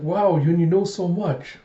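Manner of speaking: retold wide-eyed "wow"; impressed wonder. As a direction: voice an awed, admiring reaction. Retold admiring reaction to Yun.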